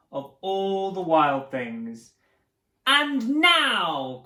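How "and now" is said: high, loud announcement; crying out. Acted. Max calls out to the wild things, high and loud. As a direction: call the crowd to attention. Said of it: "cried Max".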